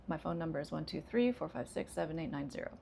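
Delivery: flat monotone, rushed digits. Shown as a demonstration. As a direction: rattle digits off flat and fast. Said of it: "By contrast".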